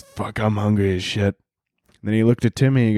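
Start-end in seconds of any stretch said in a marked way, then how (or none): 0.0-1.4 hippo voice. Retold or imitated. The hippo speaking.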